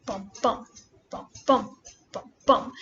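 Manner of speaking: "bum, bum" in pairs, the second bum stressed; heartbeat rhythm. Shown as a demonstration. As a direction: beat out each "bum, bum" like a heartbeat, pausing between pairs. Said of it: "sounding a bit like a heartbeat".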